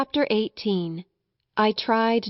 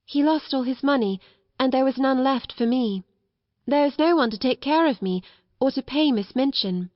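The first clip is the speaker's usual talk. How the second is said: put-on higher-pitched child telling her story; a hint of an earnest young girl; lightly voiced little girl, earnest; 4 semitones higher than usual. Orphan girl explains she was left penniless, earnest.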